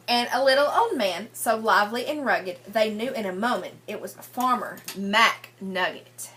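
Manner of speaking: sing-song read-aloud rhyme for a class; lilting picture-book reading voice; story reading to children. Acted. Teacher reads rhyming picture book.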